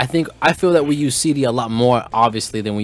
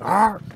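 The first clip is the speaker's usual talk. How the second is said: Tarzan yell; 7 semitones higher than usual. Retold or imitated. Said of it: "I'll sound like Tarzan".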